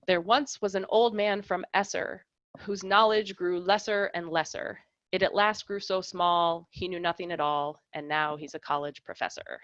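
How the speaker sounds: a lecturer reading a limerick to the class, lightly rhythmic. Shown as a demonstration. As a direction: recite it in the sing-song rhythm of a limerick. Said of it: "here's an example".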